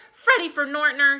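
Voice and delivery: loud scolding mother; exclaiming. A narrator's reading. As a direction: call the child sharply by full name. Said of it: "she exclaimed".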